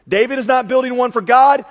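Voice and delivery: loud, high, emphatic shout; preaching shout. Real, not acted. Preacher driving his point to the congregation, loud.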